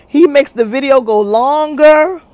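drawn-out imitation of a slow talker; mock slow talking. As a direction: stretch the last word right out. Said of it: "because if he talks slow".

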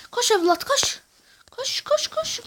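high, loud urging that builds to a shout; excited yelling. Real, not acted. Gamer yells at his striker to run, excited. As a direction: push the runner on with your voice.

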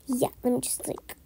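a quick private whisper; whispered aside. Acted. Babysitter whispering to herself while checking time. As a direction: whisper it to yourself.

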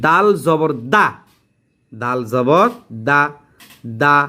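দা with a thin open vowel; light dal reading. Shown as a demonstration. Teacher showing the unproblematic letter, light dal. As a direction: read দা light and plain after দাল জবর. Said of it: "সমস্যা নাই।".

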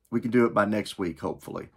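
dry sarcastic tone. Acted. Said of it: "That's sarcasm".

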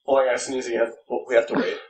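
breathy whisper, about to sneeze. Real, not acted. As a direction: whisper it under your breath.

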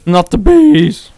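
high, slow hammed-up cry; mock bees wail. Echoing his friend's bees quote, slow high mock cry. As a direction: stretch it out in mock horror.

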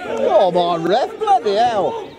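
loud exasperated shout at ref; yelling from the sidelines. Real, not acted. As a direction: complain loudly at the referee. Protesting the referee.

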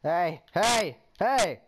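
shouting. Acted. Shouting at game character.

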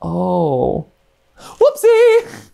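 very high, giggling bids; laughing. Real, not acted. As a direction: squeak the numbers through laughter. Laughing while mock-bidding.

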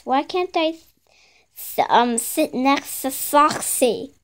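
slurred, lisping sibilants; odd mushy speech. Acted. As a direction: speak with a thick, slushy lisp. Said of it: "Why are you speaking like that?".

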